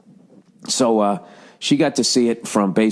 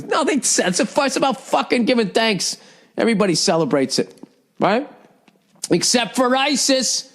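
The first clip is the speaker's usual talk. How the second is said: much higher mock wife voice; imitating wife; 12 semitones higher than usual. Wife in grocery store explaining Thanksgiving, high mock voice. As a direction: do the wife sure of herself, pitched way up. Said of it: "She goes".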